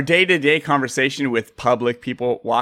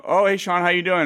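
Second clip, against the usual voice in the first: higher, breezy phone greeting; imitated friendly caller; 5 semitones higher than usual. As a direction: mimic a casual caller checking in. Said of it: "they'll call and just say".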